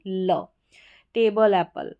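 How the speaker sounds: टेबल, एप्पल ending in a short light ल; light final L. Shown as a demonstration. Teacher modelling LE endings, light L. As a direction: say टेबल, एप्पल without drawing out the L. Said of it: "हल्का सा ल pronounce करना है".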